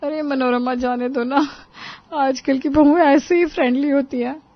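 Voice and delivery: smooth it over for her friend; placating woman guest. A narrator's reading. Guest telling Manorama to let it go, placating.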